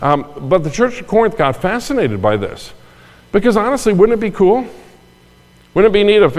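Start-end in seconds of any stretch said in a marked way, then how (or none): 3.3-6.4 high, eager what-if; excited wonder. Real, not acted. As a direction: dream it aloud, wide-eyed. Preacher imagines a miracle.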